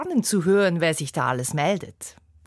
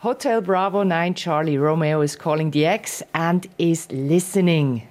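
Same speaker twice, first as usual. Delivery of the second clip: radio call. Shown as a demonstration. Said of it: "machst genau den Spruch hier".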